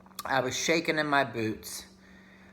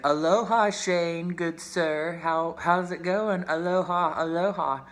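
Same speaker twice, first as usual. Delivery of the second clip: higher, sing-song hammed-up Aloha greeting; mock recruiter greeting; 4 semitones higher than usual. Imitating her recruiter's cheery voicemail greeting, hammed-up and higher.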